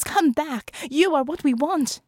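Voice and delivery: high, loud desperate call; screamed. A narrator's reading. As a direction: cry out after someone escaping, high and loud. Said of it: "he screams".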